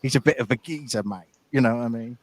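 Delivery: attempted Danny Dyer Cockney; amateur mock Cockney; bad Cockney accent. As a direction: put on a clumsy East London geezer accent. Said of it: "he's got a strong accent".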